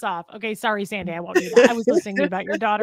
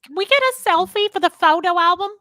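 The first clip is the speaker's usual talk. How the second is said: starstruck fan; 9 semitones higher, 6 dB louder than usual. Pretend. Playing starstruck visitors.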